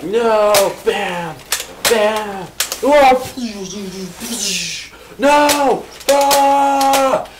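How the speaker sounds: a duelist flailing and firing in panic; panicked defensive Burr. Acted. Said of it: "he was all defensive".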